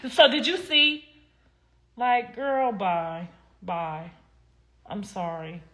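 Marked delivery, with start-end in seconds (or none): 0.1-1.0 higher, hammed-up fake-sincere question; overdone soap delivery; mock bad acting. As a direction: parody the stiff actress. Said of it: "and then it was like".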